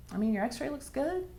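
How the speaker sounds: imitating the doctor. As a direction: brush the worry off lightly. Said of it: "and he said".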